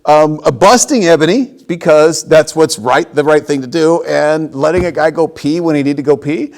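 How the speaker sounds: laughing loudly through his words. Real, not acted. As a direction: grin and laugh while bragging.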